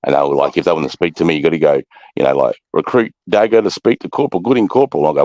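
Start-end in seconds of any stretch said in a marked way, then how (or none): 2.7-5.1 recruit reporting formally. Retold or imitated.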